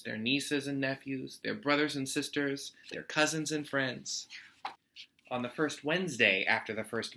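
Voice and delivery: lively read-aloud storytime voice; story narration. A narrator's reading. Teacher reading a picture book to students, lively storytime voice. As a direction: read it warmly to a class of kids.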